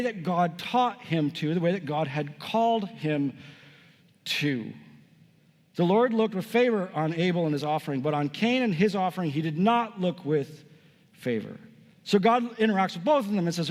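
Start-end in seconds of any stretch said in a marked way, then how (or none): 5.8-11.6 deliberate scripture reading. Real, not acted. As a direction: read it out, pausing before the final word. First, deliberate reading of the verse.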